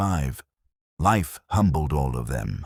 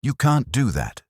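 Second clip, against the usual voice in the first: higher, louder outraged cry; outraged protest; 9 semitones higher, 4 dB louder than usual. A narrator's reading. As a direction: protest in shock at the will. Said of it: "Then chaos erupted".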